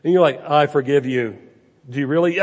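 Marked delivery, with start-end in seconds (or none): 0.5-1.4 a hollow, dutiful I forgive you; insincere forgiveness. Shown as a demonstration. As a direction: say it without meaning it. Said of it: "but I'm not gonna mean it".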